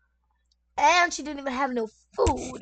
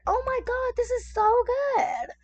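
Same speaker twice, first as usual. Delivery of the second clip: high, excited "Oh my God"; gushing praise; 12 semitones higher, 3 dB louder than usual. Retold or imitated. Praising the mother-in-law's roast after skipping lunch, high and excited. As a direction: rave about the roast with real delight. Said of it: "I said".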